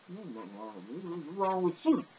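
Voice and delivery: high, very drawn-out odd voice; freaky voice. Acted. Answering people who stare, in a freaky slow voice. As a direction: stretch it out eerily, rising at the end. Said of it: "kind of freaks people out when I talk like this".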